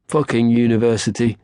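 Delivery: scornful. A narrator's reading. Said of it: "said Dave".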